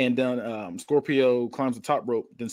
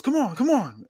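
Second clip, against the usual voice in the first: higher, playful hype call; mock yell; 10 semitones higher than usual. Wrestler calling to the crowd, mild mock yell. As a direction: fire up the fans, lightly. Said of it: "He yells".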